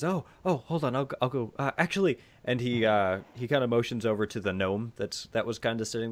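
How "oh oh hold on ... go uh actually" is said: higher, softer character voice; hesitant, lightly voiced wizard; flustered wizard. Wizard reacts to door knocking.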